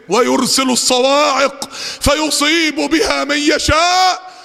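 slow, ringing verse with stretched ending; Quranic recitation. Real, not acted. Preacher warning of thunderbolts, slow proclaimed recitation. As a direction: proclaim it, lengthening the vowels.

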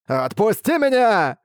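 high, slow frightened plea; a touch of fear. Acted. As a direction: plead to be let go, scared. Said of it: "В его голосе слышалась нотка страха".

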